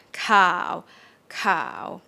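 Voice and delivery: "cow" starting low and sinking. Shown as a demonstration. Teacher models the Thai low tone, sinking "cow". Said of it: "It's just like that".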